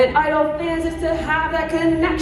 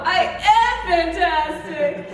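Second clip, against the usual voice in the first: mock diva; 5 semitones higher, much slower than usual. Shown as a demonstration. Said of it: "You're great".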